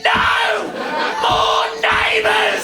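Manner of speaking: high, long-held yell; hammed-up high-pitched refusal; mock shouted command. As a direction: bellow it slowly as a ridiculous decree. Voicing Amazon refusing the farewell.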